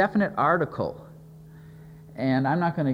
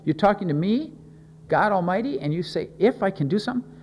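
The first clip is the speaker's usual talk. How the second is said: mildly affronted, higher-pitched questioning; incredulous challenge; 4 semitones higher than usual. Acted. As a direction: throw the doubt back as a rising question. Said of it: "he emphasized that word, "if".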